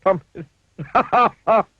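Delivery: high, loud, giggly cartoon voice; high giggling character voice; laughing at own joke. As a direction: chuckle through the pun. Mister Bump laughing at pun.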